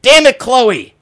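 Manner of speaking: high, loud strained whisper-yell. Retold or imitated. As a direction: yell it through clenched breath like Kiefer. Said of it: "All the whisper yelling".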